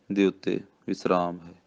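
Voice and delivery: ordinary talk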